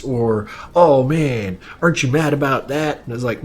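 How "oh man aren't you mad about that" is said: mock ad voice. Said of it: "Like that".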